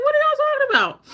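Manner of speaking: very high, loud, baffled cry; incredulous. Retold or imitated. Soldier to those reporting the truck fire, incredulous. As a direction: exclaim in high-pitched disbelief.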